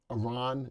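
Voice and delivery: Iran said as "ih-RON"; corrected pronunciation. Retold or imitated. Host reads out a viewer's correction, Iran as "ih-RON". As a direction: say Iran with a short first vowel, "ih-RON". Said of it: "everybody says it's not Iran".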